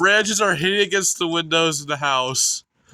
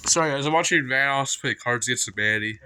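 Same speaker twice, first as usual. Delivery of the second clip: blocked nose, stuffy voice; congested; 3 semitones lower, faster than usual. Real, not acted. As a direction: talk through a stuffy nose. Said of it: "I'm kinda congested still".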